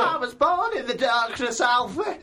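lightly mocked villain turned soap nana; Bane as Nana Moon. Mocking his co-host's Bane impression, Nana Moon voice. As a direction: send up the villain line with a nana's plea. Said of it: "Sounds like Nana Moon".

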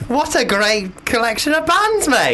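sarcastic praise. Pretend.

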